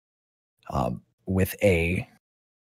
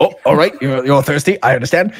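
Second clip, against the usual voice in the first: higher, louder, teasing; mock sympathy, pitched up; amused NPC; 7 semitones higher, 5 dB louder, faster than usual.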